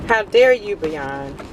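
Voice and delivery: playful fake indignation; mock outrage. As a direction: scold the brand in jest. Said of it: "I'm so mad at them".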